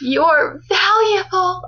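VALUABLE drawn out slowly and pitched high; emphatic imitation. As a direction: lean hard and slowly on "valuable". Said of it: "she puts so much emphasis on that word".

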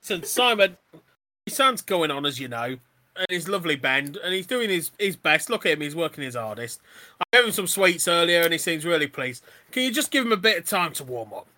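put-on Australian accent slipping into Cockney; wobbly Australian accent. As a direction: attempt Australian, keep lapsing into Cockney. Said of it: "you do an Australian accent, and then you slip back into your Cockney accent".

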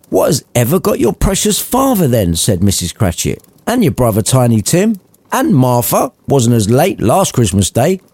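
high, fretful mother voice; a mother fussing over latecomers; mildly annoyed mum; worried, annoyed mother. Acted. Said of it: "worried and annoyed at her lateness".

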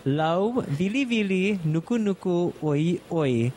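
"Lau, vili, vili, nuku, nuku, oi, oi" in separate paced chunks; said slow. Shown as a demonstration. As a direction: break the fish name into slow pieces for the learner. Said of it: "I'll say it one more time slow".

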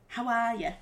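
Irish accent drifting towards Geordie; Irish accent attempt. Shown as a demonstration. Demonstrating for partner, wobbly Irish accent. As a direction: try Irish, landing near Geordie. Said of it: "Everything you do sounds Geordie".

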